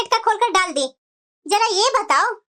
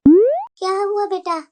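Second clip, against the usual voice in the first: calling back; 4 semitones lower, much slower than usual. Acted. Mother answers her son's call.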